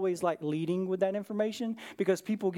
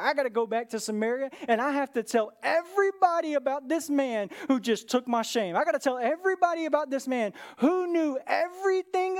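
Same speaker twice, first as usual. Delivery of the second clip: higher and louder, bursting with news; excited; 5 semitones higher, 3 dB louder than usual. Retold or imitated. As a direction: rush it out like she can't wait to tell everyone. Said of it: "She gets so excited".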